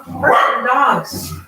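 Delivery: slow, deliberate repeat; repeated clearly. Real, not acted. Repeating for her husband, slowly and clearly. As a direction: spell it out slowly for someone who didn't hear.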